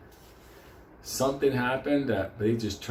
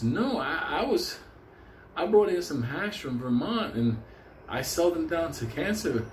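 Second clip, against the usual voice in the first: higher, whiny hippie voice, lightly done; Mister Burroughs complaining; 5 semitones higher than usual. Retold or imitated. Hippie tells the teller about stolen brownies, higher complaining voice. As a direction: play the wronged hippie baker, pitched up. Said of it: "He goes".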